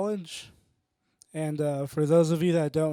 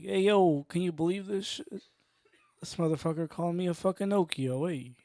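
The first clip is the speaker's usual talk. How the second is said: half-hearted movie tough guy impression; Joe Pesci. Comic pretending an actor was insulted as Okio, lightly impersonated. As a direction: lightly act an affronted wise guy. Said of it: "pretend I'm Joe Pesci for a second".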